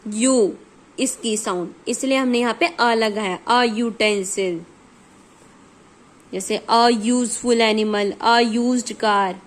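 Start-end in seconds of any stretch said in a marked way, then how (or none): 3.5-9.4 slow, with यूटेंसिल, यूजफुल and यूज्ड each starting on a Y sound; slow classroom demo of the Y sound in यूटेंसिल; teaching pronunciation. Shown as a demonstration. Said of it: "यू माने वाई वाली की sound".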